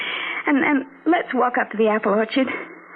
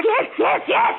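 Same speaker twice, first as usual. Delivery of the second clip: terrified; slower than usual. Acted. Daisy agrees in terror.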